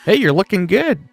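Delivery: ordinary talk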